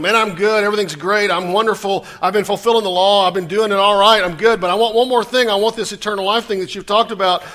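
arrogant rich man. Retold or imitated. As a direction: brag like a man sure he's earned heaven. Preacher voices arrogant rich man.

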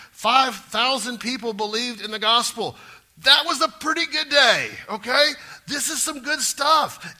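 loud, high, fervent preaching; full-force preaching. Acted. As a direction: lift the room with praise, near shouting.

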